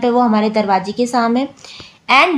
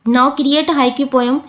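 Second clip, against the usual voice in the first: slow reading; much slower than usual. Shown as a demonstration. Reads task slowly.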